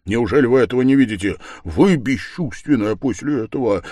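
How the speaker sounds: loud, urgent stage whisper; fervent, forceful rebuke; heated whisper. A narrator's reading. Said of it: "горячо прошептал Разумихин".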